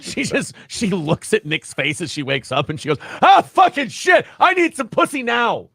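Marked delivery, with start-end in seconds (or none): 3.2-5.7 high, slow, loud groggy morning voice; hammed-up high groan on waking; Arcade impression. Imitating a groggy wife waking beside Nick, high and slow. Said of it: "Gotta work on my Arcade impression".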